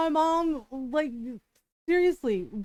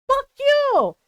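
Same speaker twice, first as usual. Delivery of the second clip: higher, louder retold curse from tita; angry shout; 10 semitones higher, 9 dB louder than usual. Aunt cursing at her niece mid-argument, shouting. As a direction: hurl it back, mock shouting.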